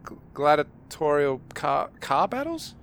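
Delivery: high, loud protest of a pretend drunk; a drunk insisting he's sober; pleading drunk. Player plays drunk pleading character.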